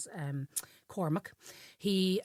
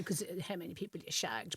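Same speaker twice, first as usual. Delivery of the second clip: whisper; 9 dB quieter than usual. Acted. Joking aside about shag bands.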